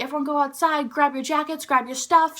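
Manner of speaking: lightly voiced loudspeaker announcement; principal on loudspeaker. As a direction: imitate a principal calling out orders. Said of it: "the principal on the loudspeaker".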